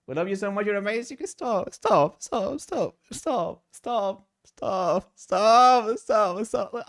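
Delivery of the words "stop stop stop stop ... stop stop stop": flustered protest. Real, not acted. Overwhelmed by compliments.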